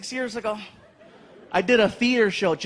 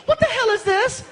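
very high, indignant woman's voice; girlfriend voice; 13 semitones higher than usual. Retold or imitated. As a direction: mimic the shocked girlfriend. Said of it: "she's like".

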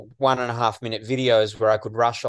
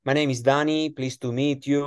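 high, bright-eyed fake Latino accent; 6 semitones higher than usual. Introducing himself to new people in a fake Latino accent. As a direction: put on a Latino accent to break the ice. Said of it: "talk in my Latino accent".

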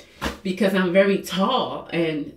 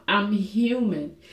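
I'm human said slowly and softer, sinking; slow, soft repeat; 3 dB quieter, slower than usual. Real, not acted. Admitting her weakness to viewers, slow and soft. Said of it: "But I'm human".

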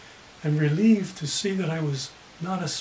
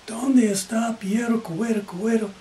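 raised, pressing question in Spanish; louder Spanish; 4 semitones higher than usual. Retold or imitated. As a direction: say it louder, more insistent. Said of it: "said it even louder".

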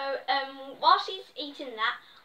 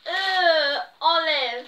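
disgusted; 2 semitones higher, 7 dB louder, much slower than usual. Real, not acted. Finds olives she dislikes.

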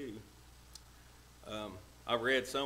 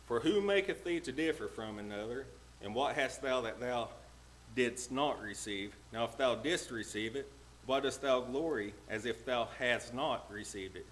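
slightly raised, declaiming Bible reading; preacher reading scripture aloud; 3 dB louder than usual. Real, not acted. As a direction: read the verse out firmly to the congregation. Reads the scripture verse aloud.

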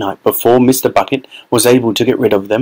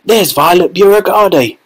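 higher, calling crowd voice; crowd shout; 8 semitones higher than usual. A narrator's reading. Onlooker in the crowd spotting Violet, shouting. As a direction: point her out with a shout. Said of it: "he heard someone shouting".

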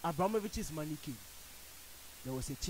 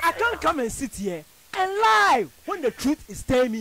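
1 laughing protest; 8 semitones higher, 11 dB louder than usual. Real, not acted. Laughing, heated studio banter.

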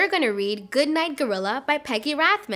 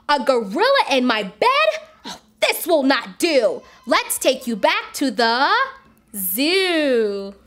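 shocked; 6 dB louder than usual. Acted. Wife finds gorilla in bed.

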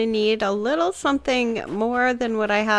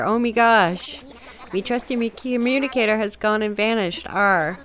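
lightly voiced blustering pirate captain; a touch of a swaggering sea dog; pirate captain boasting to the islander; Gulliver pirate. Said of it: "I'm still workshopping me pirate".

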